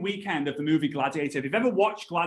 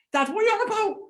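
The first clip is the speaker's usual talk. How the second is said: high, loud laughing incredulity; amused disbelief; 5 dB louder, faster than usual. Retold or imitated. Son baffled by dad on the drive home, laughing. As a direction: laugh through the question, baffled.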